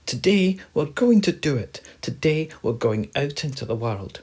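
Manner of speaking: high, loud little mouse voice; eager mouse. Acted. Mouse rallying his best friends, high and eager. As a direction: pipe up boldly as a mouse.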